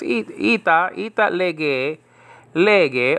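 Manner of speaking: Greek words read with an Italian lilt; Italian-accented Greek. Shown as a demonstration. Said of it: "I put an Italian accent to these things".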